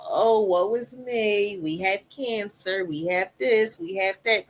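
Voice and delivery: mock self-pity. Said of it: "I had to go from".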